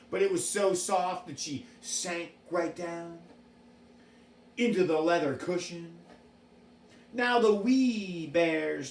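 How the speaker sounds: put-on reading a fairy tale to children; story narration. A narrator's reading. Storyteller reading Goldilocks to a child. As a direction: tell it gently like a bedtime story.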